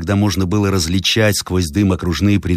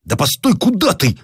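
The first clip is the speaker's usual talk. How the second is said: calling out; 12 semitones higher than usual. Acted. Captain calls after departing friend.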